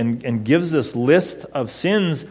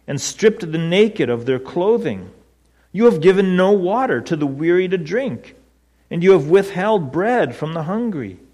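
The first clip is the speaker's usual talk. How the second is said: higher-pitched, emphatic accusation read from scripture; reading with conviction; 4 semitones higher than usual. Acted. Preacher voicing Eliphaz's list of Job's sins, with conviction. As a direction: read out the charges as undeniable truths. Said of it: "with such, such conviction".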